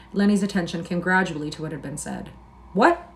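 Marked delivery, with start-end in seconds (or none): 2.7-3.1 startled high snap of a question; sharp demand. A narrator's reading. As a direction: jerk up in alarm. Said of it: "he demanded".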